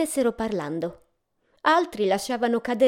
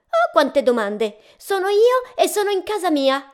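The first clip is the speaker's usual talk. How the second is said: a bit annoyed; 9 semitones higher, 7 dB louder than usual. A narrator's reading. Hidden host answers the insistent guest, a bit annoyed. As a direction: mildly put out by all the questions. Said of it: "ribatté la voce un po' seccata".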